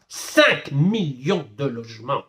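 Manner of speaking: slow, weighty "Cinq millions de logements"; slowly spelled-out dismay; dismayed, drawn-out repeat. Real, not acted. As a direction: stretch out each word to let the loss sink in.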